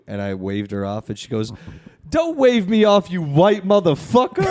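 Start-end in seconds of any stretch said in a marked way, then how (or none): 2.1-4.4 high-pitched imitation of an indignant beggar; mock angry outburst. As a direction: act out being furious at the brush-off.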